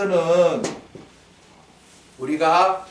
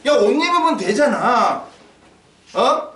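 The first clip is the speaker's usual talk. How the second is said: raised, higher, brush-off voice; mock dismissive; 5 semitones higher, 4 dB louder than usual. Preacher mimics someone brushing off the hungry, mock dismissive. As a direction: act out a callous brush-off. Acts callous advice to the hungry.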